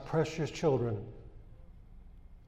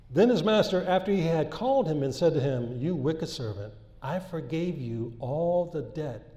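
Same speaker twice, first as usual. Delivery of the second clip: scripture reading. Acted. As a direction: read the parable out to the congregation. Reads scripture aloud.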